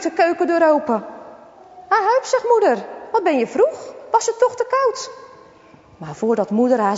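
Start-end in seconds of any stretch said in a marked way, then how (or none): 1.9-5.1 higher, lightly voiced surprised mother. A surprised mother greets her son coming home early.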